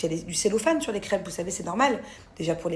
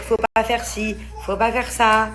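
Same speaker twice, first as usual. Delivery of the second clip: nagging; 4 dB louder than usual. Retold or imitated. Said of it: "J'en ai marre de dire".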